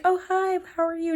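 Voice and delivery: put-on high, sweet old lady voice. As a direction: chirp it like a friendly old lady. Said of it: "she was like".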